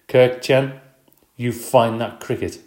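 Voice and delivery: loud, stern teacher command. Acted. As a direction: scold the pupil firmly. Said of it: "she said in a very stern voice".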